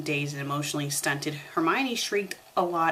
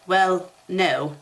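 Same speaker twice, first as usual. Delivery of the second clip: slow agreement; 4 dB louder than usual. A narrator's reading. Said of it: "Harry agreed slowly".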